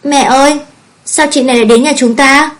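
put-on high-pitched tearful child voice; crying little girl. A narrator's reading. Small girl to her mother about the newcomer, crying. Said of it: "miệng oa oa khóc lớn".

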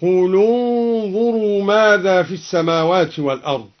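ضم اللام; lam with damma. Shown as a demonstration. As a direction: join قل انظروا as qulu-nzuru, the lam with a u. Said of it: "قرأ الدوري بضم أولى الساكنين".

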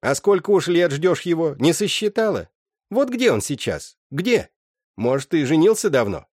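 mother Agna taunting her daughter, high and loud. Acted. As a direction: needle the daughter with every question.

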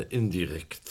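"indirekt" said slowly and with weight, each syllable leaned on; stressed word. Acted. Chapman stressing "indirekt" to the inspector, slow and weighty. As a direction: press down hard on "indirekt". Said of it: "ich betone".

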